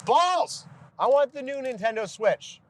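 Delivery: put-on high, whining child voice; whiny bratty kid. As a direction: whine like a spoiled kid. Whiny kid demanding toy.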